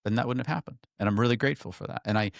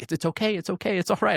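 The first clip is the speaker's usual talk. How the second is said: high-pitched, hurried retold reassurance; quick reassurance; 13 semitones higher, 4 dB louder than usual. Comforting a friend who is apologizing, reassuring. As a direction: reassure a friend in a much higher voice.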